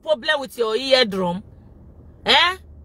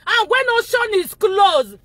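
laughing taunt, higher and slow; mocking laughing taunt; 6 semitones higher than usual. Real, not acted. Vlogger laughing as she taunts the man called dustbin. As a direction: jeer at the bully through laughter.

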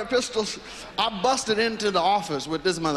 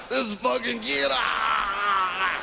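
put-on high mobster voice, tickled by the kid; amused mobster; 4 semitones higher, much slower than usual. Mobster laughing off the robber, high amused voice. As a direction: play a mobster cracking up. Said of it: "he just started laughing".

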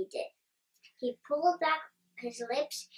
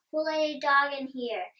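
a read-aloud shout, louder; angry shout; 3 semitones higher, 7 dB louder than usual. A narrator's reading. Manager yelling who let the dog in, loud read-aloud shout. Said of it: "he kept on shouting".

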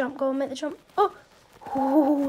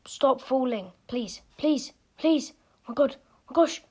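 louder, rising begging; desperate pleading; 2 semitones higher, 7 dB louder than usual. Real, not acted. Begging not to fall.

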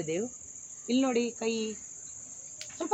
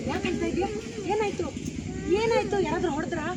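higher-pitched worried questioning; anxious, raised-pitch questions; tense concern; 5 semitones higher than usual. Shown as a demonstration. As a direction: ask a crying child tensely what happened. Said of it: "ಸ್ವಲ್ಪ tension ಇಂದ ಕೇಳಿ".

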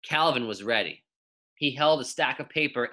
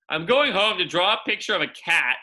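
put-on girl's voice; 6 semitones higher, 5 dB louder than usual. BB answers yard teacher.

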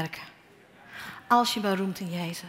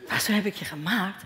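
disbelieving echo. Retold or imitated. Preacher echoing God's words back, mildly disbelieving question. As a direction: repeat "Maar zo heb ik je gemaakt?" in mild disbelief, pitch rising. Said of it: "echoes God's words".

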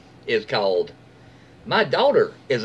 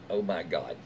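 exasperated; 7 semitones lower, 8 dB quieter than usual. Real, not acted. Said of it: "This is the one where I just went".

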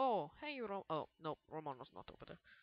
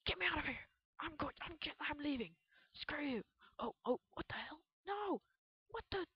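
squeaky panic; 11 semitones higher, 5 dB louder than usual. Pretend. Panicked reactions while playing.

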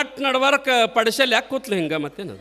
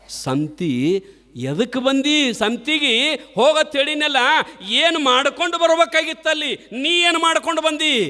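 angry scolding husband; 4 semitones higher than usual. Retold or imitated. Husband scolds wife while beating.

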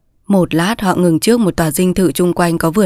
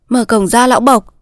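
put-on higher voice of a young woman; clear young woman; 4 semitones higher than usual. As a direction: order the servant in a clear, higher tone. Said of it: "sau tiếng nói trong trẻo ấy". (giọng thiếu nữ trong trẻo)

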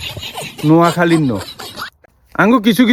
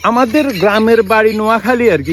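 mocking his talk. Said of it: "এভাবে করি কথা কয়".

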